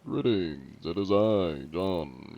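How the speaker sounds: lightly put-on fancy greeting; a slightly grander version of your own tone; low-key, lofty self-introduction; fancy John Anti-Cheat. Shown as a demonstration. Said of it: "I do speak a little bit more fancy".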